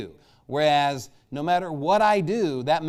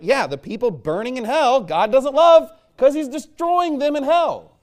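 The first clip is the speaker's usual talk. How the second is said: fiery preaching; 10 semitones higher, 8 dB louder than usual. Real, not acted. Preacher thunders to his church about hell, high and loud. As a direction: bear down hard on the congregation.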